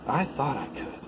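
quiet satisfied murmur of a little engine; contented fading. Acted. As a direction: let each line fade away. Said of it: "seemed to say".

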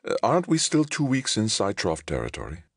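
high, uneasy questioning; puzzled alarm. Acted. Passenger queries their position in enemy space, puzzled alarm. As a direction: question it high, taken aback.

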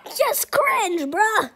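high, laughing cringe; cringing laugh. Real, not acted. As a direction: squirm and laugh at yourself. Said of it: "reacting to old video".

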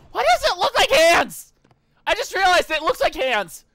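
very high, loud squeal of surprise; shrieking surprise. Real, not acted. Streamer noticing the throne looks like hands, shrieking surprise. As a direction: shriek as it suddenly clicks. Sudden realization in game.

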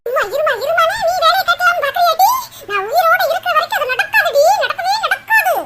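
defiant taunt. Acted. Mother-in-law taunts, defiant.

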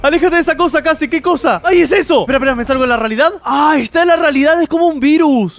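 high, loud frightened babble; gasping panic at the monster; scared shouting; panicked yelling. Real, not acted.

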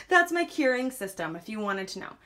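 breathless, puffing between words; out of breath. Real, not acted. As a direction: talk while catching your breath. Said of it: "I'm out of breath".

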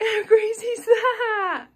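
high laughing, slow; laughing in disbelief. Real, not acted. Mother sharing news with child, laughing and amazed. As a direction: laugh through the words, amazed. Pregnancy test reveal, laughing.

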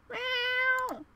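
high, long kitty mew; cat meow. Acted. Cat replying to Yunho, high meow. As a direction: answer with a cute high meow.

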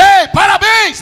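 high, loud cheery congratulations; mock a cheerful pat on the back; sarcastic bright parabéns. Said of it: "a Bíblia não diz".

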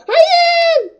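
high, loud laughing no; laughing shout. Real, not acted. Player caught by his friend yells laughing. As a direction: yelp it out half laughing. Attacked in game.

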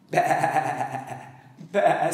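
lightly bleated bah; a mild sheep bah. Acted. Storyteller imitates sheep bleat.

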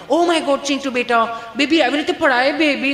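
high-pitched doting mum; fussing mother. Acted. Mother fusses over fallen child, high and doting. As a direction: gush over the little one.

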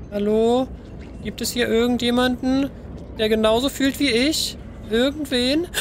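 high, hopeful little creature voice; lonely calling out. Pretend. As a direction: call out into the dark, hoping. Player voices lonely Nom calling out.

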